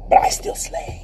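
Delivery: whisper. Real, not acted. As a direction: hush it like a private boast. Whispered boast.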